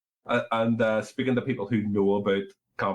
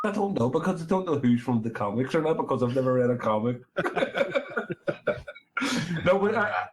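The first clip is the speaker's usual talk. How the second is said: tipsy, loose slurred talk; speaking after a few drinks; 6 semitones higher, faster than usual. Real, not acted. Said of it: "I am totally wasted".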